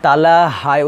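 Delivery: "তালাহায়" slowed with a long "হা"; slow, open ending on "তালাহায়"; one-alif stretch. Shown as a demonstration. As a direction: stretch the final syllable of "তালাহায়". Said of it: "এক আলিফ অবশ্যই টান".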